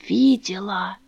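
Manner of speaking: dramatic hushed whisper; old woman confesses to Dasha in a whisper; terrible whisper. A narrator's reading. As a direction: hiss it like a dark secret. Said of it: "страшным шёпотом прошептала".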